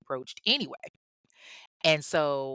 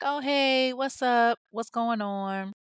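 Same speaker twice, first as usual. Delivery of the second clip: bright, high cheerful hello; high, upbeat mock hello; friendly greeting; 7 semitones higher, slower than usual. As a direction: greet an old school friend happily, pitched up. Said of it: "she was like".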